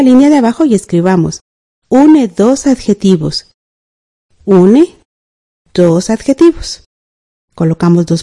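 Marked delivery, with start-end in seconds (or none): 1.9-3.5 dictation. Shown as a demonstration. Dictating what pupils should write. 4.4-6.8 slow, word by word with long pauses; slow dictation. Shown as a demonstration. Teacher dictates the answer for the line below, slow dictation. Dictating what pupils should write.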